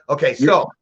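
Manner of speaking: normal talking voice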